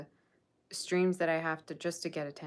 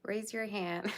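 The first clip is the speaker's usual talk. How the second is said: light Dora-style prompt with a rising end; Dora the Explorer; 3 semitones higher, slower than usual. Shown as a demonstration. Streamer copying Dora asking viewers to raise hands, mild kids' host voice. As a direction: coax the chat like a kids' show host. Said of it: "making me act like Dora the Explorer now".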